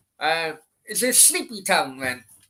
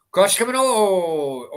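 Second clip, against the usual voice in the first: excited; 4 semitones higher, 6 dB louder, slower than usual. Real, not acted. Live match reaction.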